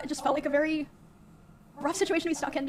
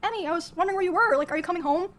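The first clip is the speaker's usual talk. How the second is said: imitating a suddenly softened tone, pitched higher; mock-innocent higher voice, retelling his switch; deflated, changed tone; 4 semitones higher than usual. He spots the roommate standing there, imitated sudden nicer tone. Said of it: "deflated and changed his tone".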